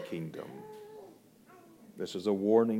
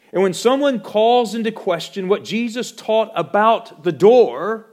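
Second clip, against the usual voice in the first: loud, high, ringing pulpit voice; fiery sermon delivery; preaching at full force; 10 semitones higher, 10 dB louder than usual. Acted. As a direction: preach it out to the whole congregation.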